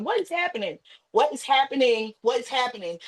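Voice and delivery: in the hospital at his death, panicked; panicked disbelief. Retold or imitated. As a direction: lose your grip in disbelief. Losing it in the hospital.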